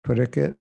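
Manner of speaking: parikit, said without the S sound; dropped S. Shown as a demonstration. Teacher showing the Bengali parikit. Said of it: "dropping the S".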